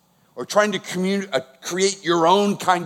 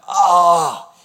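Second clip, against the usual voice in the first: loud, drawn-out groan of anguish; pained outburst; anguished cry; 6 dB louder than usual. Shown as a demonstration. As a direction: let out an anguished "ah". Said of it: "it's actually an expression of anguish".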